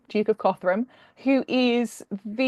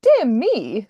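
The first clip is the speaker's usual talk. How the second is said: a raised, carrying exclamation; loud voice; 2 semitones higher, 7 dB louder than usual. A narrator's reading. Woman startling a stranger in the park, loud. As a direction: call it out louder. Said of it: "said the woman in a loud voice".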